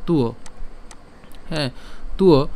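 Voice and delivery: "তুয়" said short, as tu-o; isolated teacher's "তুয়", pausing between repeats; shown pronunciation. Shown as a demonstration. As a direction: join t and u-o into "তুয়". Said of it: "তখন তার উচ্চারণ কেমন হবে".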